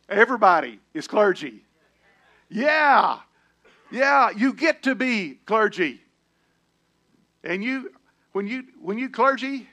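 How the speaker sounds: loud high preaching climax; preaching shout. Acted. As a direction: shout it to the congregation.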